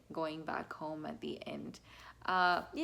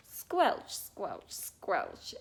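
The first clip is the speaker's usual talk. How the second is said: squelchy mud sound; 4 dB louder, much slower than usual. Shown as a demonstration. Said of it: "they go through the mud".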